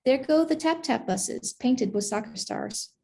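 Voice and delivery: measured picture-book reading, savoring each phrase; story narration. A narrator's reading. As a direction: read it to children in unhurried phrases. Reads a picture book aloud.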